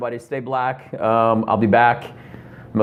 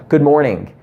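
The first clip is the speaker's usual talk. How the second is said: cheerful greeting; 5 semitones higher, 3 dB louder than usual. Shown as a demonstration. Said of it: "give them some actual verbal communication back and say".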